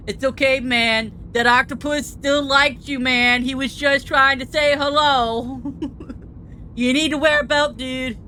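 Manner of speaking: surfer dude voice. Acted. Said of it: "Why am I doing surfer voice?".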